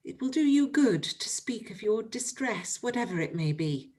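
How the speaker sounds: urgent, pressing questions with a touch of whisper; Emma, eager and anxious, pressing her friend. Acted. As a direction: Emma begging her ill friend to tell her. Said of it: "she eagerly said".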